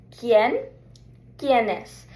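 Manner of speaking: quién said kee-EN, quiénes said kee-EN-es; Spanish pronunciation. Shown as a demonstration. Teacher modeling quién and quiénes for students, carefully. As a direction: model the words slowly for learners. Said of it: "So pronunciation".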